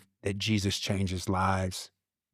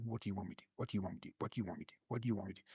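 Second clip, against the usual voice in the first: repeated pleading question; 16 dB quieter, much faster than usual. Retold or imitated. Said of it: "I'm like".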